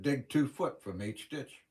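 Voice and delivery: slow, weight on "two"; slow order stressing "two"; retold order. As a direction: lean on "two" as you give the order. Boss giving crew orders.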